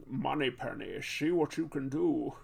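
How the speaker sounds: put-on lightly done lisping Scottish accent; a hint of mock Scottish, with slushy S sounds; amateur attempt at a Scottish lisp; Sean Connery. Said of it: "how to do a Sean Connery accent".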